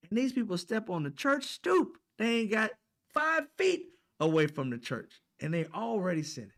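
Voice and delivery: put-on high, loud, outraged child voice; indignant little kid. Young boy protesting to grandmother about sinners, high outraged. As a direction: play the kid demanding why they sin. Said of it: "I said".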